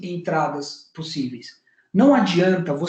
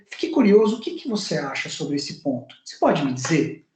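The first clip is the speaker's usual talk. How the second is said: curious tone; 4 semitones lower than usual. Shown as a demonstration. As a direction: ask with a raised eyebrow, curious and open. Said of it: "essa entonação de curiosidade". (tom curioso, sobrancelha levantada)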